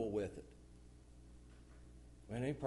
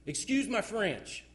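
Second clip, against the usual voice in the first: mock polite quote; 6 semitones higher, 4 dB louder, slower than usual. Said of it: "Right before somebody curses".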